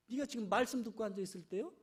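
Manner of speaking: fast, sharp scolding; hurried scolding. Retold or imitated. Martha scolding Mary impatiently, fast. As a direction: rattle off the reproach impatiently. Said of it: "막 화가 나는 거요".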